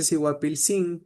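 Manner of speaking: Siguapilcín stressed on the final cín; Siguapilcín, final syllable carrying the stress; stress on last I. Shown as a demonstration. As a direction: put the accent on the last i of Siguapilcín. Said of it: "con acento en la última I".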